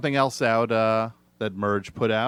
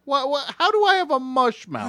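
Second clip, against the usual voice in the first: indignant protest; 13 semitones higher than usual. Acted. Protesting the insult.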